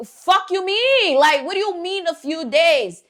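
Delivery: high, slow disbelieving mock outrage. Aunt bruja snapping at the careless client with high mock outrage. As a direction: drag it out like you can't believe your ears.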